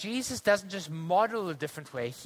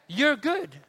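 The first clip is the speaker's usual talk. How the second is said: higher, called-out "you're good"; team shouting back; 5 semitones higher than usual. Retold or imitated. Softball team shouting back to the player. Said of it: "the team shouts back".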